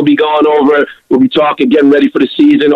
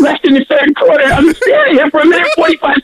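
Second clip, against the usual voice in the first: much higher, exasperated mock whine; whining in line; 14 semitones higher than usual. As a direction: play the fed-up fan stuck in the beer line. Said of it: "you're like".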